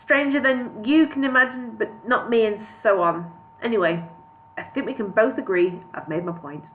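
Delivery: lightly put-on bumbling wizard voice; Mister Bean. Wizard winding up his point to the hobbit, light Mister Bean voice. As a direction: play the wizard with a hint of a comic impression. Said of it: "Why did I choose Mister Bean for Gandalf?".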